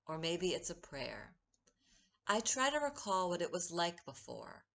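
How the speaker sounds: measured poetry recital with deliberate pauses; unhurried, line-by-line verse reading; poem reading. Acted. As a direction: read your own poem aloud, lingering on key words. Poet reads the poem a second time.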